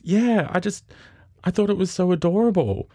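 very high, cooing explanation; hammed-up adoring passenger; imitated gushing. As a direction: gush over something adorable, in mimicry.

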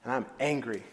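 low sulking grievance; understated, low-pitched anger; sullen anger. Acted. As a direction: grumble it low, nursing the grudge. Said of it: "The older brother became angry".

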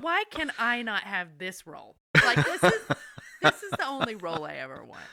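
laughing through the words. Real, not acted. Gushing to a friend about a dream role, laughing. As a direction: giggle while wishing for that role. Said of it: "And I'm like".

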